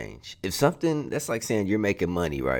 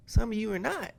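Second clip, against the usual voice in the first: escalating comedy rant. Real, not acted. S0 rant peak.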